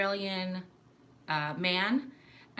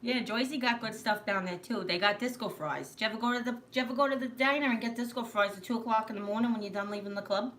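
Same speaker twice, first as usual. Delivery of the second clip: brisk, run-together Jersey accent; 3 semitones higher than usual. Shown as a demonstration. Asking about disco fries after the club, Jersey accent. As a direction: talk it up like a Jersey local. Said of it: "That's Jersey".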